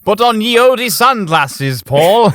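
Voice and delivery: high, loud, drawn-out comic character voice; mock old-timer. Host acts out putting ye olde sunglasses on Paul, high mock voice. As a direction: put on a high, slow, laughing old-world voice.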